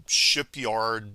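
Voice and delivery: ordinary talk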